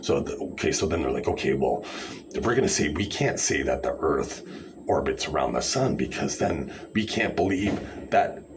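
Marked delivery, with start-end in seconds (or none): 1.3-8.4 mocking the flat-earthers, breathy at the end; condescending parody of their logic; sarcastic mock quote. Vlogger mocks flat-earthers' reasoning in sarcastic voice. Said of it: "I'm being sarcastic".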